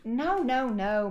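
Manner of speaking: sudden loud no from the dad, high and forceful; dad's firm no. Acted. Dad stopping the girl pushing boxes, loud firm no. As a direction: cut her off sharply, like a dad halting a kid.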